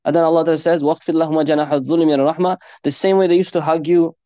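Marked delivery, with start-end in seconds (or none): 0.8-2.6 fast chanted Quranic verse; chanted Arabic verse; Quran recitation. Acted.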